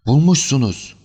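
high, loud cry of relief; joyful shout. A narrator's reading. Client to detective who found the jewels, joyful shout. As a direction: shout it out with sudden joy. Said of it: "diye bağırdı".

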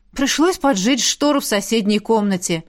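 usual speaking voice

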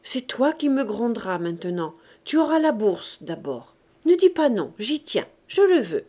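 mother pressing her son to accept; with emotion. Acted. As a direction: insist out of love. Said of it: "Elle ajoute avec émotion".

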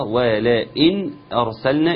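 ولئن with a thin و and a clear نون, slowly; thin waw demo. Shown as a demonstration. Teacher modelling ولئن slowly after the rule. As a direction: keep the و in ولئن thin and show the nun. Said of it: "والواو مرققة".

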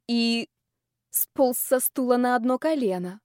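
plain reading voice

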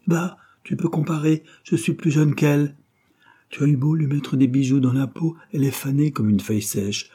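put-on a young woman begging to be loved; passionate lover. Christine mocks the painting.

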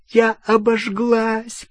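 slow, high pained moan. A narrator's reading. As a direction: groan it out, hand burned. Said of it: "простонала Гермиона". (стон от боли)

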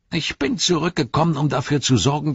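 high-pitched orc voice; defiant high-voiced orc; Grishnach. Grishnach answers his rival Ugluk.

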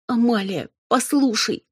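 high, urgent plea; imploring. A narrator's reading. Robin imploring her cousin to listen, urgent. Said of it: "взмолилась я".

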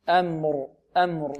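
"أمر" with a thin, light hamza and meem. Shown as a demonstration. Teacher models the correct word for students, light hamza. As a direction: say "أمر" lightly, its opening vowel unrounded and thin. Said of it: "لا بد من تلطيف الهمزة".

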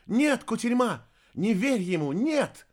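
high, loud warning cry; urgent shouting. A narrator's reading. Girl warning the sorceress, shouting. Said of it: "закричала Полика".

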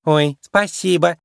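slow, touched thank-you; flattered shrew thanking Judy; grateful thanks. A narrator's reading. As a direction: thank her sweetly. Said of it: "с благодарностью".

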